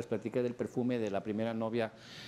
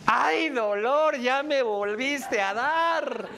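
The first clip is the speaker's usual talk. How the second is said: high, loud, slow drawn-out wail of heartbreak; mock pained cry; 12 semitones higher, 7 dB louder, much slower than usual. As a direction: wail it like the song just stabbed you. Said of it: "esos gritos". (grito dolido, alto y lento)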